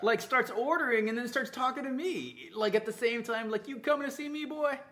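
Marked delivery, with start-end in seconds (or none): 3.7-4.8 redneck Texan hick. Retold or imitated. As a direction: imitate a hick boss in a Texan accent. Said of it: "like, real redneck hick".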